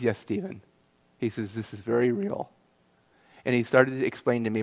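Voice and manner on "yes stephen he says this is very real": soft, lower, gently reassuring; personable. Retold or imitated. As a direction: drop the official tone and confirm it kindly and quietly. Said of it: "his voice became personable".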